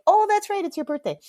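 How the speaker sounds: high-pitched imitation of a belated realization; a loud high "oh", then easing off; mom suddenly remembering. Mom remembers her daughter's birthday late, suddenly remembering. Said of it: "she was like".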